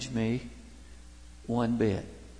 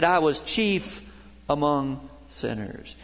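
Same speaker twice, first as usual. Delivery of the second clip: slow, weighty confession; slower than usual. Retold or imitated. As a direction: linger on "I", then let "among sinners" fall. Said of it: "Hal said".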